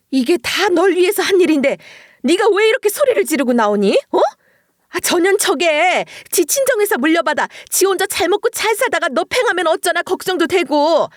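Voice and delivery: 높고 크게 몰아붙이는 시어머니 목소리; 아들에게 오히려 큰소리치는 뻔뻔한 시모; 뻔뻔한 시어머니의 고함. Acted. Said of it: "뻔뻔한 자세로 남편을 향해 소리를 치기 시작했어요". (아들을 꾸짖는 시어머니, 높은 음으로 따지듯 소리침)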